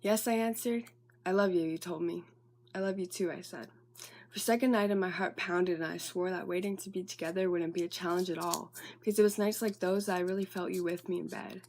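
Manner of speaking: even, steady recital of a personal piece; monologue reading. Acted. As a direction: read your own love monologue in running, measured phrases. Reads own monologue aloud.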